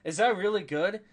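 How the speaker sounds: high, loud laugh into the question; real laughing. Real, not acted. Streamer reacting to own impression going over well, laughing. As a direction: burst out laughing, then ask through it.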